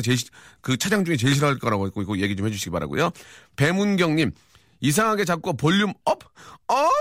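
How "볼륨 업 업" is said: high, punchy exclamation; excited call. Acted. Host acts out a listener's text, high excited call. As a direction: pitch it up and punch the last word.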